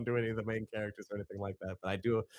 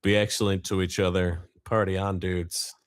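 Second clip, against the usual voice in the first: big booming dude sign-off; loud surfer dude; 9 dB louder than usual. Pretend. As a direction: shout it like a stoked surfer. Bill and Ted quote as sign-off.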